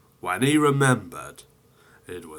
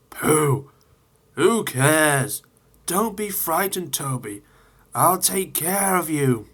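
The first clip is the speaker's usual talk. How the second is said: higher, scoffing then reassuring; brave boast; 6 semitones higher than usual. Acted. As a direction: brush off the fear boldly.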